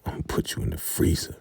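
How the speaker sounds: whispered threat, quick; menacing whisper. Retold or imitated. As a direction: hiss the punishment quietly. Daikon punishes River.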